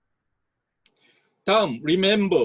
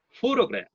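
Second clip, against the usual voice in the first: photograph with PHO stressed, said higher; 7 semitones higher, much slower than usual. Shown as a demonstration. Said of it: "첫 음절에 강세가 옵니다".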